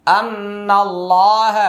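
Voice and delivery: আন্নাল্লাহ recited with a sustained nn; wajib ghunna. Shown as a demonstration. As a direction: hold the doubled n in আন্নাল্লাহ as a nasal hum. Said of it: "এটা ওয়াজিব গুন্না".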